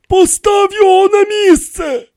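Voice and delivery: high, loud command; sharp order. A narrator's reading. An order to put it back, high and commanding.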